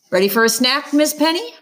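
playful dad. A narrator's reading. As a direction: tease the little one toward a snack. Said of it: "he asks her".

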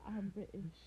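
lightly mocking British accent. Joker quoting British people saying who they are, mock British accent. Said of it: "when British people said they're British".

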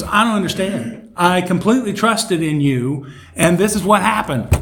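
mock bewildered complaint. Drowned man complaining to God in heaven, mock bewildered.

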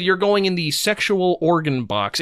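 slow, lightly smug read of the line; a hint of smugness, drawn out; mock smug. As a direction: imitate a voice actor being pleased with himself. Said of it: "And he did it so smugly".

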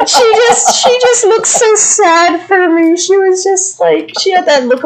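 words squeezed out through high giggles; real laughter, pitched high; laughing while talking. Real, not acted. Laughing at the memory.

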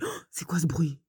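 whispered, puzzled. Retold or imitated. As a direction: whisper it in wonder. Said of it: "puis il dit". (chuchoté, intrigué)

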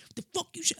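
very high, squeezed mock outburst; mock outrage. Kid wants to snap back at caller, mock outrage. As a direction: imitate indignation in a leaping high pitch. Imagined angry reply to the caller.

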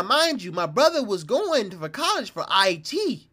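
ordinary talk, nothing marked

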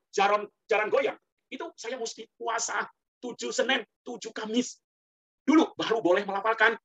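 ordinary delivery

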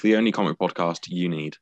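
a put-on British accent for the podcast intro; host doing a British accent for the intro. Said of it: "you're still doing it in a British accent".

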